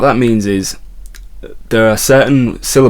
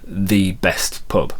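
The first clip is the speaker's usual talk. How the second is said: "the" said slowly as a stressed "thee"; 4 dB quieter, much slower than usual. Shown as a demonstration. Guitar teacher giving an example, slow emphatic "the". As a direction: lean on "the" in "the best pub", drawn out. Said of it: "emphasis if it's the".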